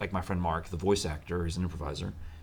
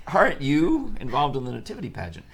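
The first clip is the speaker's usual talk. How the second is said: loud, raised-pitch pointed reminder; mock scolding reminder; 7 semitones higher, 6 dB louder than usual. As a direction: prompt him with loud mock indignation. Acted reminder from co-hosts he blames.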